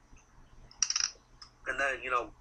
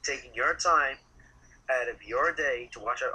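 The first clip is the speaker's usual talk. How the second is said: loud; 7 dB louder than usual. Real, not acted. Loud sign-off to viewers.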